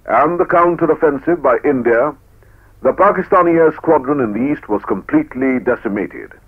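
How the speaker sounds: stirring newsreel narration; proud, rousing war report; old newsreel. Acted.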